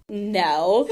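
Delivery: squeaky high-pitched no; gingerbread man voice. Retold or imitated. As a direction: shoot up high and loud. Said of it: "High pitched voice".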